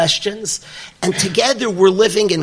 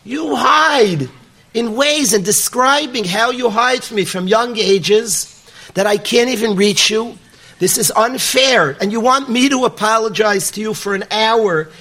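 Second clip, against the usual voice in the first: higher, mildly heated protest at God; mock the boy's hurt accusation, not a real yell; the boy's upset complaint at God, retold; 3 semitones higher than usual. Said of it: "He starts screaming and yelling and getting upset at Hashem".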